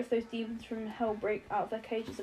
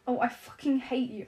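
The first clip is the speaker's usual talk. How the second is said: shouts; 3 semitones higher, 4 dB louder than usual. Acted. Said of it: "Alex shouts".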